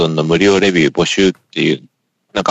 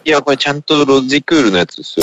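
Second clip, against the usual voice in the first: higher voice on a poor headset mic; electronic, transceiver-like sound; digital noise; 6 semitones higher than usual. Real, not acted. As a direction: protest through a noisy computer connection. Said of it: "デジタルノイズみたいな".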